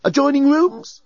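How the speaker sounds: high, cheeky bellbot voice; leering service robot; flirty robot voice. A narrator's reading. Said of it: "suggested the bellbot".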